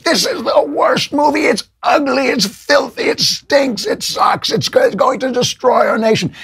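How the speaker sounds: high, shrieking caricature of outraged critics; hammed-up falsetto outrage; mocking the press. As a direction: shriek it like a hysterical reviewer. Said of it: "so they're like".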